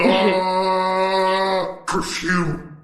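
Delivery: long drawn-out "uh" into "perfume"; stretched-out, hammed-up product reveal; mock grand reveal. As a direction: announce it like a silly brainwave. Acted jokey reveal of perfume idea.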